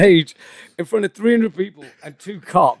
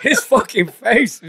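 slow, higher words through laughter; laughing; 5 semitones higher, slower than usual. Real, not acted. Remembering the friend's face onstage, laughing. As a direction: savor the memory while still laughing.

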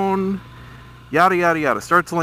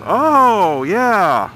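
bright, pleasant recognition, pitched higher; pleasant greeting; 5 semitones higher, 5 dB louder than usual. Retold or imitated. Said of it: "he sounded all normal, you know, pleasant".

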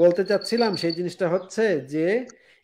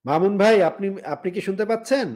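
raised voice to reach a bad line; to someone hard of hearing. Real, not acted. Calling a dropped caller.

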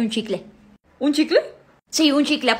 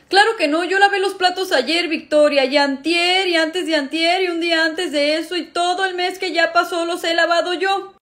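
sibling indignation; 4 semitones higher than usual. Acted. Discusión entre hermanos por platos.

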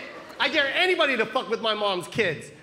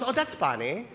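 put-on cool retort in a Filipino accent; mom's Filipino accent. Mom answering the man who mocked her, scornful Filipino accent. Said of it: "You're making fun of my accent?".

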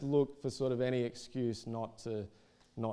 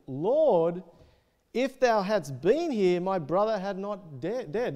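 raised, emphatic Bible reading; scripture reading; 2 semitones higher, 5 dB louder than usual. Acted. Preacher reads Mary's plea to Jesus to the congregation, emphatic scripture reading. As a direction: read the verse out to the room, pitch lifting.

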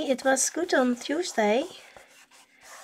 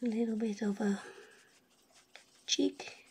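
whispering; 8 dB quieter than usual. Real, not acted. Concentrating while drawing.

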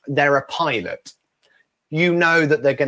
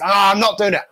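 higher imitated protest; mock refusal; 5 semitones higher than usual. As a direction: groan out a refusal to a pleading friend. Friend refusing in acted argument.

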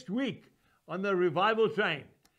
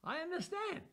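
gentle Jesus; 8 semitones higher, 6 dB quieter than usual. Retold or imitated. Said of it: "he will say to you".

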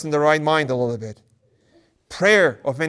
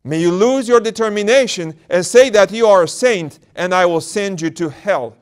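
higher, louder sly temptation; tempting demon; 4 semitones higher, 6 dB louder than usual. Acted. Demon tempting the elder to call himself saint. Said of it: "The demon tempts him".

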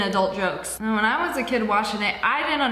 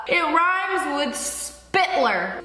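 slow teasing; 3 semitones higher, much slower than usual. Real, not acted.

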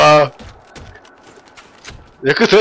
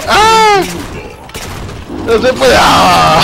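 sudden fright shout; jumpy scream of panic; startled scream; 3 semitones higher, much slower than usual. Real, not acted. Caught by monster, screams. (grito de susto)

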